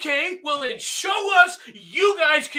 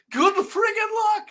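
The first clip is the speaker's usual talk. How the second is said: sneering dismissal; 8 semitones higher, slower than usual. Acted. Sneering advice to the French.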